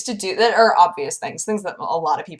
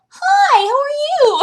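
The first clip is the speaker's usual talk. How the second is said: very high, bright mock greeting; imitating makeup lady; 8 dB louder, slower than usual. Vlogger imitating makeup lady greeting her cheerfully. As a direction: sing out hello like the cheery makeup artist. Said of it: "She was like".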